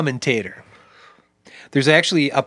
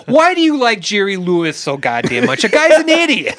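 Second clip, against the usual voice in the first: exasperated dad; 3 semitones higher than usual. Retold or imitated. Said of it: "It was like".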